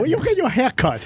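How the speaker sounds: put-on stereotypical Asian accent. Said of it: "doing that joke".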